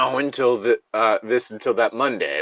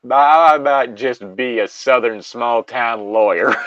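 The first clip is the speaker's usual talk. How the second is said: Southern lawyer; 6 dB louder, slower than usual. Acted.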